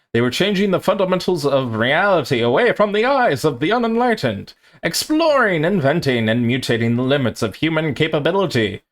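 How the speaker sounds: vintage newsreel announcer voice; old newsreel. Pretend. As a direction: read it like an 1890s newsreel narrator. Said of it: "I've been working on my, like, eighteen hundreds, uh, newsreel voice".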